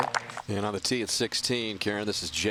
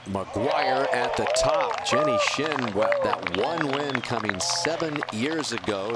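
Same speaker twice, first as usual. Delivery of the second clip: excited; 4 semitones higher, 4 dB louder than usual. Real, not acted. Live call of a tying birdie.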